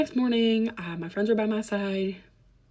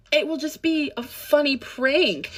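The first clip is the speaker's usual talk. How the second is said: slow, higher mock-sweet voice of a creep; creepy coaxing; 7 semitones higher, 4 dB louder, slower than usual. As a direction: drag it out like a sly manipulator. Quoting the creep's line.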